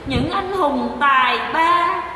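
slow drawn-out mock admiration; slow sarcastic imitation of praise; mock gushing praise. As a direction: stretch tài ba out like a fawning fan. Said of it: "mày nói".

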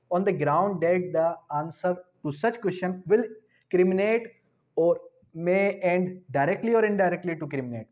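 very slow formal reading; statute reading. Shown as a demonstration. Law teacher reading out the statute, very slow formal reading. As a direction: read the text out slowly for notes.

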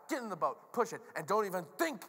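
exasperated leader giving orders; frustrated Jesus. Acted. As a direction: lay down the law to a hapless crew. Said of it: "he's so frustrated".

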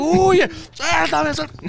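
very high cries, fading at the end; retold struggling cry. Grabbed daughter urging friend to flee, high cries. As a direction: cry out high as if being held.

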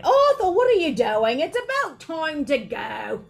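high, loud scolding wife; calling out. A narrator's reading. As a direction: shout to hurry your husband along. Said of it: "called Missus Weasley".

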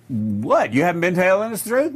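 mock incredulous question. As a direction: act out a taken-aback listener, fast. Imagined listener challenging the speaker.

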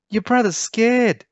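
high, loud cooing mother voice; fond mother squealing with joy; doting mum. A narrator's reading. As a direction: gush over her little one.

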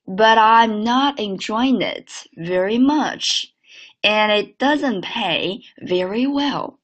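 slow linked repeat; again, slowly; slow second model. Shown as a demonstration.

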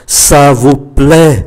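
slow "Ça vous plaît?" meant as a question by tune; rising question. Shown as a demonstration. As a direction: lift the voice on "plaît". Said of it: "Đây là câu hỏi lên giọng". ("Ça vous plaît?" hỏi lên giọng ở "plaît")

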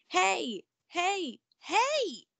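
high, loud calls of hey; yelling frog. Acted. Frog yelling at Ella from her pocket, loud and high. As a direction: shout after her to stop. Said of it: "yelled the frog".

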